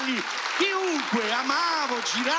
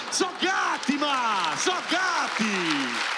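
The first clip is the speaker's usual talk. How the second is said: exasperated shouting; 5 semitones higher than usual. Retold or imitated. The child yelling at his mother that they're just cats, furious. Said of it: "gli avrei detto".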